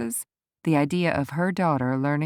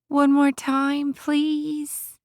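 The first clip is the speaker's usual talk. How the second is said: calling out; 9 semitones higher, much slower than usual. Acted. Calling out to girl on horse.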